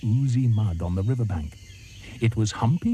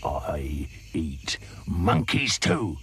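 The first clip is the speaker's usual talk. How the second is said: menacing croc; 7 semitones lower, much slower than usual. Acted. Crocodile menaces the monkey, low and slow. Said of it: "grinned up at Mugglewump and said".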